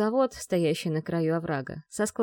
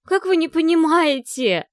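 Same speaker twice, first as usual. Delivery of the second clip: much higher, louder outburst; desperate cry; 9 semitones higher, 9 dB louder than usual. A narrator's reading. Vi to the men who won't understand, desperate cry. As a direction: cry out in exasperated despair. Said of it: "вскрикнула Ви".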